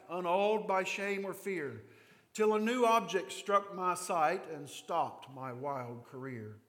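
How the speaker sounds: measured, slowing poem reading; hymn recital. Acted. Pastor reciting John Newton's hymn to the congregation, reverent.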